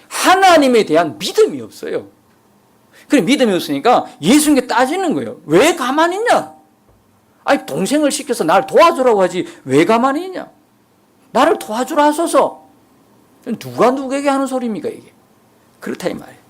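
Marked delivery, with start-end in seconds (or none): 5.5-12.7 higher, indignant demand to the Lord; complaining Martha. Retold or imitated. Martha demanding Jesus make her sister help, complaining. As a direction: whine it like an aggrieved sister.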